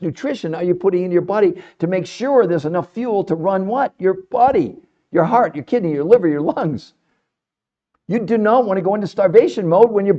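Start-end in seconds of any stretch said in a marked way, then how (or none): none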